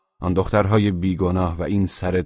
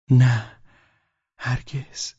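astonished; 6 semitones higher, much slower than usual. A narrator's reading. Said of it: "زن با بهت بسیار گفت".

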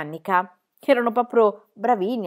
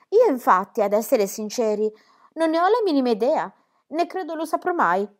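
put-on cheeky girl voice; 3 dB louder than usual. Pippi satisfied explanation.

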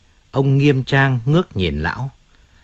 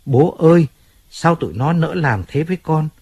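daughter crying out; 5 semitones higher than usual. Retold or imitated. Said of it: "Nó đau đớn khóc la".

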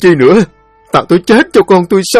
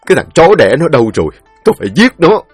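furious outburst; 5 semitones higher, 5 dB louder, much faster than usual. Acted. Father vows to kill son.

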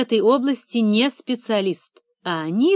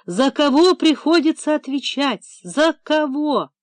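trembling voice; 6 semitones higher than usual. Acted. Director protests before investigators, trembling indignation. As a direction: let the voice shake with outrage. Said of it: "голос его дрожал".

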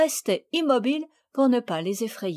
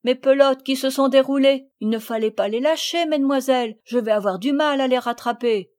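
louder, gruff-ish country keeper; gamekeeper; 4 semitones higher, 6 dB louder than usual. Acted. Gamekeeper grumbling at the girls for releasing hedgehogs. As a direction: grumble at the careless young ladies.

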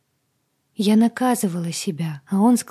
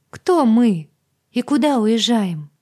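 loud, higher urgent questions; alarmed demand; 4 semitones higher, 7 dB louder than usual. Acted. Heroine to Agata, loud alarmed questions. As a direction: demand answers at once.

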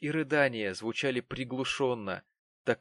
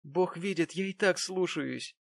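sobbing; 6 semitones higher than usual. A narrator's reading. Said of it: "рыдая ответила бедняжка".

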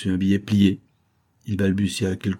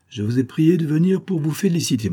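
higher-pitched, cordial congratulation; 8 semitones higher than usual. A narrator's reading. Boss congratulating his old worker, cordial. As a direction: congratulate him with a smile. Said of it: "avait un sourire cordial".

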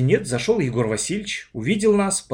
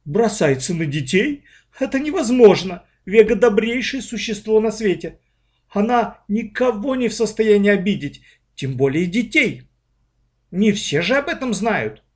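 astonished; 8 semitones higher, 4 dB louder than usual. A narrator's reading. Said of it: "Та так и вытаращила глаза".

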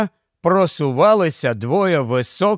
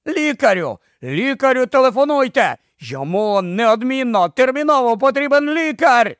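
high, urgent call for help; urgent shouting; 8 semitones higher than usual. A narrator's reading. Ed demanding the crowd call a doctor.

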